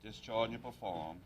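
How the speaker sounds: slow, deliberate formal phrase; slow oath prompt. Real, not acted. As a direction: give the oath slowly, to be repeated. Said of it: "I'll talk very slowly".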